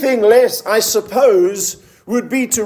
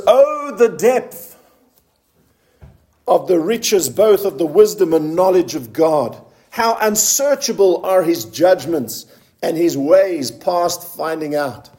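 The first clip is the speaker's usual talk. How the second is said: drawn-out, reverent Bible reading; scripture reading; 4 semitones lower than usual. Acted. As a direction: read the verse with weight, sinking at the end. Reads the verse aloud.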